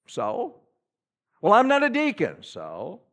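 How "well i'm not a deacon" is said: quoting a reluctant churchgoer, louder; mock excuse. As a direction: play the excuse-maker.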